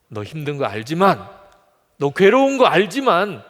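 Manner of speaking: acted divine voice, swelling; emphatic acknowledgment. God acknowledges David's suffering.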